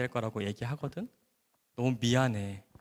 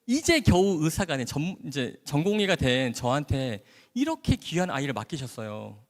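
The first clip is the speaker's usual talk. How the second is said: resentful prayer; 5 semitones higher than usual. Retold or imitated. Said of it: "하나님이 원망스러운 거예요".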